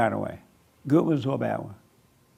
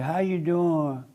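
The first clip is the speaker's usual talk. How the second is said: sweet wife voice; 3 semitones higher than usual. Retold or imitated. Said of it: "She asks you".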